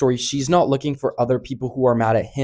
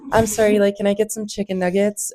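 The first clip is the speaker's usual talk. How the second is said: lightly voiced nervous customer, a touch higher; 5 semitones higher than usual. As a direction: retell the boy's order with a hint of a put-on voice. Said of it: "he's like".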